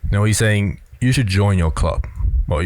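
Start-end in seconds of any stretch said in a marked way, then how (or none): 1.0-2.1 "club" going down at the end, making it a statement; a plain statement that falls on "club"; falling statement ending. Shown as a demonstration. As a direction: drop the pitch through to "club". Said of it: "Going down at the end of the sentence".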